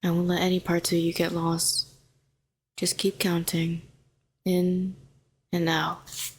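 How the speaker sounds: calm, even, gentle coaxing; soothing reassurance. Acted. Calming a frightened hero in the tank, soothing. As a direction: talk them down steadily, with space between phrases.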